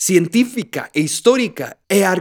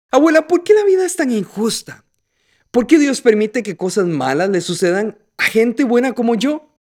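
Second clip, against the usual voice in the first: lightly voiced teenager; 2 semitones higher than usual. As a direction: lightly act out a teenager questioning grandma. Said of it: "un adolescente que le preguntaba a su abuela". (adolescente preguntón, levemente imitado)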